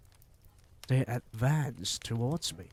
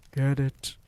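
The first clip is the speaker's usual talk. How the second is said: louder snap of a witch; shouted order; 3 semitones higher, 7 dB louder than usual. A narrator's reading. Grand High Witch shouting at witches, loud. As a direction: bark at them to seize it. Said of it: "shouted the Grand High Witch".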